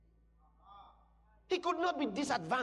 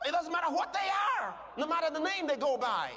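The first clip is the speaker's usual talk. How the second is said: fiery preaching; 4 semitones higher, faster than usual. Real, not acted. Preaching emphasis.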